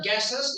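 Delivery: "gases" in two syllables, with a vowel before the last s; mispronounced word. Shown as a demonstration. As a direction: say "gases" as it was misheard. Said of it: "it's not gases".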